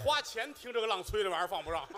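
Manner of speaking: ordinary talk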